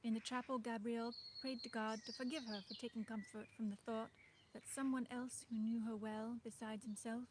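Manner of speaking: put-on reading a novel aloud in an old-fashioned Dutch-tinged English accent; lightly put-on old-fashioned Dutch-flavoured accent, steady storyteller pace. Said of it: "when you speak with this accent".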